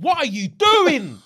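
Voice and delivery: high, slow, incredulous; imitating a stunned fiancé; shocked disbelief. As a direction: stretch out the disbelief. Retold shocked man.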